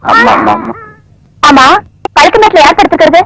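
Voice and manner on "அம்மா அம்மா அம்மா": crying out. Acted. Woman cries out in distress.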